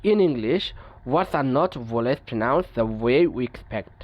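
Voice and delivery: each English word read out slowly and evenly; measured, deliberate reading of a textbook rule. Acted. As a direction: dictate the rule slowly to the class.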